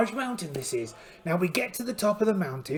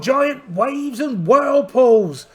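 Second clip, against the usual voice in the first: slow dramatic pirate; 4 semitones higher, 7 dB louder, much slower than usual. Acted. Pirate captain dramatising the seas, slow and loud. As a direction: savour each word like an old sea dog.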